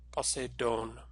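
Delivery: Poseidon as po-say-DOHN; Greek pronunciation. Shown as a demonstration. Teacher repeating the assembled Greek word, Poseidon as po-say-DOHN. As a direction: Poseidon with "say" in the middle and long "DOHN". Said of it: "So we put it all together".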